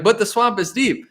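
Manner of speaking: plain and sincere; mean every word; serious. Retold or imitated. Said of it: "you might be serious and be like".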